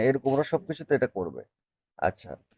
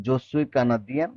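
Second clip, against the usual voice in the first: slow French phrase with a rising end; slow demo; much slower than usual. Shown as a demonstration. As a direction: model it slowly for the class. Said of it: "teacher models French line".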